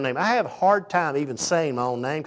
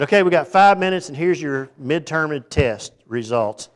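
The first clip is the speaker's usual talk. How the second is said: brisk professor; 3 semitones higher, 8 dB louder than usual. Retold or imitated. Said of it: "the guy said".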